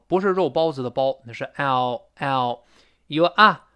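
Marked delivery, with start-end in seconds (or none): 1.6-2.6 "ow, ow" said slowly and fully; full diphthong. Shown as a demonstration. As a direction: glide the "ow" of "about" from ah to oo. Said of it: "一样是双元音".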